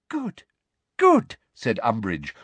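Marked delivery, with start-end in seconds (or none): 0.1-0.4 high, soft, pleased voice; soft satisfaction. Acted. Umbridge surveys her captives, softly satisfied. 1.0-1.4 very high, loud approval; emphatic satisfaction. Acted. Umbridge watches Ginny struggle, emphatically satisfied. Umbridge repeats it, more forcefully.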